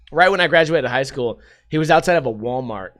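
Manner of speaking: ordinary delivery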